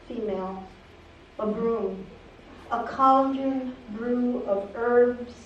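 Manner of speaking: measured poem recital with frequent pauses; poetry reading. Acted. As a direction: read it as a poem, phrase by phrase. Reads own poem aloud.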